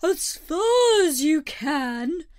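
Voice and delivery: excited creature calling over distance. A narrator's reading. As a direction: urge them on, drawing it out. Mock Turtle calls excited instructions.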